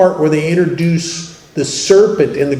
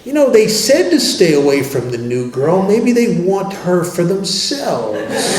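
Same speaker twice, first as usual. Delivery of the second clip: inner voice; 3 semitones higher than usual. Retold or imitated. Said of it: "It says things like".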